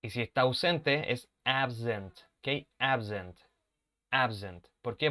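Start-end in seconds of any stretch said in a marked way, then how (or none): 1.4-4.7 Absent said slowly, s voiced like z. Shown as a demonstration. Teacher models absent with a voiced middle. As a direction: say absent as abzent. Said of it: "tengo el sonido de una B".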